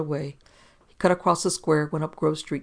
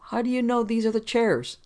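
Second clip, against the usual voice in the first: questioning; 7 semitones higher than usual. A narrator's reading. Questioning Cardigan's deduction.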